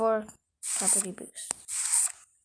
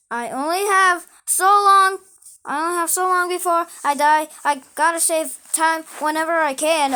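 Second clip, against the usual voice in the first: frantic hurry; 4 semitones higher, 4 dB louder than usual. Acted. Frantic game character.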